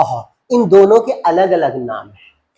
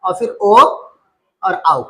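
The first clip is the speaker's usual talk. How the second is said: drawn out slowly, vowel by vowel; slowly reciting vowels; slow recital; much slower than usual. Shown as a demonstration. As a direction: stretch the last vowels like a drill. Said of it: "sir ए आई तक या ए".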